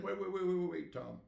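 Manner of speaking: loud, high, rapid-fire repeats; urgent interruption. Retold or imitated. Salesman cuts off Tom's what-ifs, urgent interruption. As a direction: cut in to halt someone's fretting.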